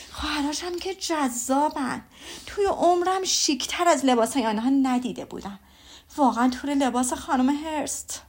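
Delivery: a mother bursting with ball gossip; telling her husband all about the ball, gushing mother; gushing Mrs Bennet. Acted. Mrs Bennet raves about sisters.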